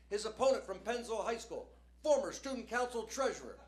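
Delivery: lightly voiced high school announcer; a hint of a ring announcer reading the card. Comic mocking a high school match intro, announcer voice.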